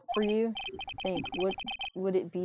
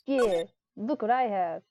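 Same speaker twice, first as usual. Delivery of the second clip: gloating; 4 semitones higher than usual. Pretend. Taunting with the photo.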